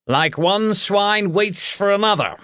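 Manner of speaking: boar voice through a mouthful of food; talking through a mouthful, high; mouth full. Acted. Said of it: "he said through a mouthful of food".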